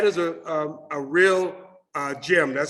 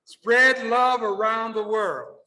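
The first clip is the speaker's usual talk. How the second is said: slow, raised-pitch call to the room; call for repetition; 4 semitones higher, slower than usual. Shown as a demonstration. Speaker leading audience to repeat after him, slow call. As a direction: lead the crowd in a drawn-out line. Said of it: "repeat after me".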